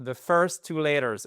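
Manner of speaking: "first" with a clear English r; model pronunciation. Shown as a demonstration. Teacher repeating the phrase for students to copy. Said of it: "Les deux premières lettres en anglais".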